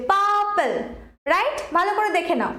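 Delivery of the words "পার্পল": পার্পল leaning on a long পার; stress on first syllable. Shown as a demonstration. Teacher demonstrating the adjective rule, পার্পল stressed on পার. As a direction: hold পার, let পল fall in পার্পল. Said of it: "পারের ওপর দেখো বেশি জোর পড়ছে".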